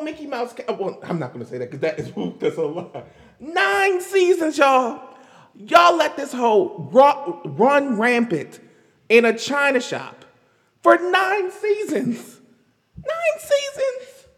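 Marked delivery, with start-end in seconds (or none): 3.4-14.3 slow, drawn-out Nine seasons; slow emphatic rant; stressing nine seasons. Real, not acted. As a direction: hammer Nine seasons slowly.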